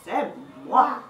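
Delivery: playful thumb character. Pretend. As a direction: pop out and greet like a tiny hero.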